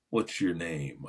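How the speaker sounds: a hint of a low-key coach; older coach. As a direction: imitate an older man sizing you up. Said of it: "it was an older man".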